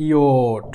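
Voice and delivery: ইওট said as ই, then ও, then a final ট; ইওট sounded out for learners; German J sound. Shown as a demonstration. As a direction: say ইওট slowly with each sound clear. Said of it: "অন্ত্যেষ্ট হয় ওকার".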